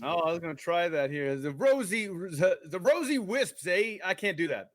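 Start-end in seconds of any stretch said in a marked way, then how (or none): 1.4-4.0 "rosy wisps" tried in a shaky Boston accent, pitched higher; a half-hearted stab at a Boston accent, ending on "eh?"; attempted Boston accent. Shown as a demonstration. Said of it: "in a Boston accent".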